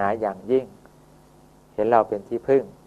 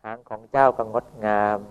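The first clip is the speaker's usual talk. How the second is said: gentle poetic praise. Acted. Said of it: "ไปผูกเป็นคำกลอนอย่างเงี้ยนะ".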